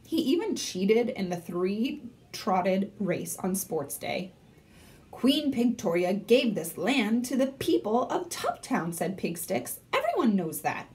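lively read-aloud with voiced characters; story narration. A narrator's reading. Librarian reading to third graders, lively storytelling. Reads chapter book aloud.

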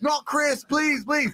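slow, high, drawn-out plea; begging on camera, high and slow; panicked begging. Retold or imitated. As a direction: stretch every word out in panic. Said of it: "he'd beg on the chat".

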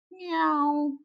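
high little meow; cat meow. Acted. The cat begging Mister Flugel, a high meow. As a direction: mew like a small cat.

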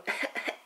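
soft little laugh; quiet self-amused giggle; short chuckle. Real, not acted. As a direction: chuckle lightly under your breath. Laughing about her lost voice.

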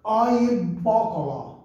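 ó e bó coló drawn out, stressed; teaching the phrase. Shown as a demonstration. Teacher modelling ó e bó coló. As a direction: say ó e bó coló slowly and clearly. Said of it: "Então a gente fala".

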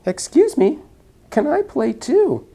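high breathy little whisper; shy small snake, whispered high; tiny snake voice. Acted. Snake shyly asking to join, high whisper.

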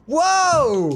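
high, startled cry; soaring gamer yelp; excited exclamation. Real, not acted. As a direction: yell it high in amazement. Reacts to the ball challenge.

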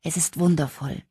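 a touch of sobbing through joy; happy tears, mildly voiced. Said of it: "schluchzte Holly".

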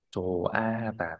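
"Chồ a ha tả" slowly, the written subscript h left silent. Shown as a demonstration. Teacher correcting a student's reading, silent h. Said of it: "Âm hờ bên dưới là âm câm".

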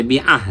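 বি আহ with বি kept short; short vowel. Shown as a demonstration. Teacher showing a quick harakat, short বি in বি আহ. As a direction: clip বি and go straight to আহ. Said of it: "বাজের বি হরকত তাড়াতাড়ি".

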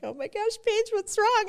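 a friend's anxious rush to help; worried friend. Retold or imitated. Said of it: "And Kristen's like".

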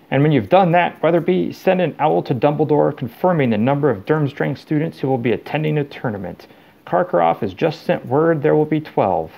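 Mister Crouch. Acted. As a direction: dictate brisk orders to an assistant. Talking to a tree as assistant.

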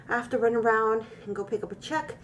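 out of breath from the stairs; breathless, still winded from climbing. Real, not acted. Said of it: "I'm out of breath 'cause I haven't climbed up the stairs".

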